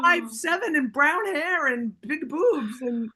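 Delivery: high, loud, animated protest; hyped-up disbelief; excited insistence. Real, not acted. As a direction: insist it, worked up. Excitedly insisting it was different.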